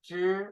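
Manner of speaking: zhi with the teeth apart and tongue curled. Shown as a demonstration. Teacher models retroflex zhi for students. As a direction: separate the teeth and curl the tongue. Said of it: "accent like zhi".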